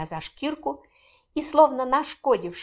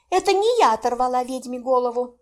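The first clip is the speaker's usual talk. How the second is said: sharp indignant outcry, raised; cry out; 4 semitones higher, 4 dB louder than usual. A narrator's reading. Mara cries out, denying blame to Heinrich. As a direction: blurt it out in protest. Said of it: "вскрикнула я".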